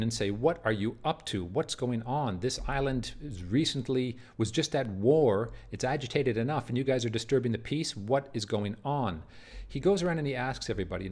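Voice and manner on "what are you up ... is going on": angry father. Acted. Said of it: "Othello, the angry father, storms in".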